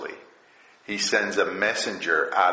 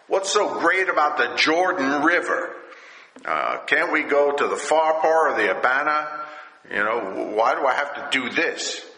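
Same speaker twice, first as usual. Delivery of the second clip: mad; 3 semitones higher than usual. Acted. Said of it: "He's mad".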